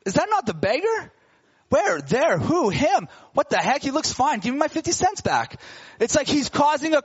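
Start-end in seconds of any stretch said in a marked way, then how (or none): 0.1-5.6 higher, excited chatter of a stunned crowd; astonished bystanders. Retold or imitated. Bystanders at the temple recognize the healed beggar, higher astonished chatter. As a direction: gasp at the walking beggar, then demand the money back.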